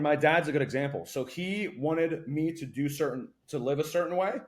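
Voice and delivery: ordinary talk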